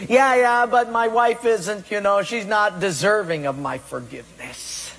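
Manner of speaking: mock excuse. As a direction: protest like a grumbling husband. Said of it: "we have all these excuses".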